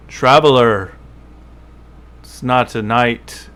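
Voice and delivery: lightly voiced tiefling, not yet settled; first-try tiefling voice. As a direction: greet a stranger in a tentative character voice. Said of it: "No, he's, sorry, let me get the voice down".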